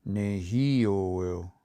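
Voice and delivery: Nehio, longer form, drawn out, pitch rising on hi; pitch change on hi. Shown as a demonstration. Teacher demonstrates Nehio's pitch change, exaggerated on hi. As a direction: stretch Nehio, lift hi, then glide down. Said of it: "listen to the pitch change".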